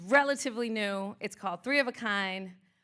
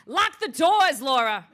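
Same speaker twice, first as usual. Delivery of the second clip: loud playful call; 3 semitones higher, 9 dB louder, slower than usual. Real, not acted. Joking command to audience.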